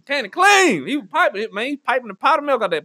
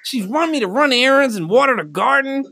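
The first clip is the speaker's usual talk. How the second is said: white dude impression; 4 semitones higher than usual. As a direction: whine like a fed-up white boyfriend. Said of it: "this is a white dude".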